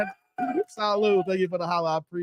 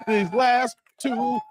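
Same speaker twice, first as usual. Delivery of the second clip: high, slow words through laughter; real amused laughter; laughing; 4 semitones higher, much slower than usual. Real, not acted. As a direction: laugh while drawing the words out. Laughs reading out viewer's joke.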